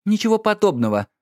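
high, sharp cutting-off reply; wife cutting him off, irritated; curt retort. A narrator's reading. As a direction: snap it shut, annoyed. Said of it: "отрезала леди Лора".

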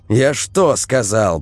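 put-on stern older brother raising his voice; sharp shout. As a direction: snap at the kid to obey. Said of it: "прикрикнул Илья".

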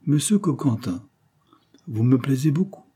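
coy, coaxing flattery; simpering. Acted. Adventuress simpering at the detective to win him over. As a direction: lay the charm on sweetly. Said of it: "minaudait astucieusement Lamonti".

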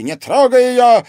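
frightened yell. A narrator's reading. Police chief to the knife-wielding countess, panicked yell. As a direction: bellow in terror for your wife. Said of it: "испуганно завопил он".

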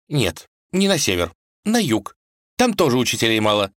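put-on high, upset young wife's voice; a princess pleading for her father, sniffling; tearful tsarevna. A narrator's reading. Vasilisa argues with husband Vanya, high and upset.

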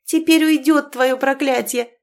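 bright joyful outburst. A narrator's reading. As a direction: exclaim it with glad hope. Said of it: "радостно воскликнула".

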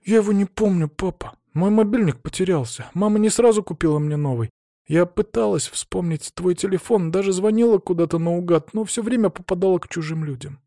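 put-on a teen girl telling her dad what happened; hint of a hurt young daughter; teenage daughter. Tonya speaking to her father.

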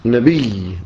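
نبي said nabiyy, final y held long; doubled final ya. Shown as a demonstration. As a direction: lean slowly on the doubled y of نبي. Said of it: "بالتشديد".

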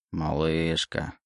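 slow, soft, smug repeat. Acted. Legion smugly repeats the name to Oleg, slow and soft. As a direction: savour the word like a secret triumph. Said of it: "Со странным самодовольством повторил Легион".

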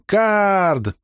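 put-on bubbly girl yelling his name; joyful yell. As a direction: greet him with a squeal of joy. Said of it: "с радостным воплем".

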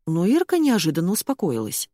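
plain reading voice

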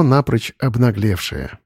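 usual speaking voice

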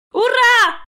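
put-on high, loud child's hurrah; squealing delight; joyful shout. A narrator's reading. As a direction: cheer at full voice like a little girl. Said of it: "закричала Сонечка".

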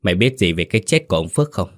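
a touch stern, quick and pressing; firm interrogation, hurried; stern question. Acted. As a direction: question him like a strict older brother. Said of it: "nghiêm giọng hỏi".

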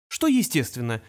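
ordinary delivery, nothing marked

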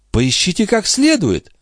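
put-on high, fast fussing old woman; mock-innocent old concierge. A narrator's reading. The concierge pretending not to know where the watch went, high and fussy. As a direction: play dumb, all fluster. Grivette to Marat.

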